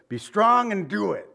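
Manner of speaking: rally him like a father sending his son off; David's charge. Retold or imitated. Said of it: "I like what he says".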